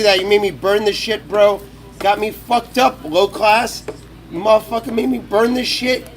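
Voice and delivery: mock-angry rant at his friend; annoyed. Real, not acted. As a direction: blame him for burning it. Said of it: "he made me fuck my shit up".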